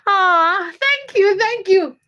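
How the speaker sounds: high, gushing gratitude; touched thanks. Real, not acted. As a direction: coo a delighted thank-you. Thanking a viewer.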